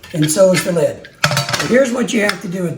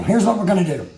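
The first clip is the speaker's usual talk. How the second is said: laughing repeat; faster than usual. Real, not acted. Vlogger repeating his plan to viewers, laughing. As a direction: say it again through a laugh.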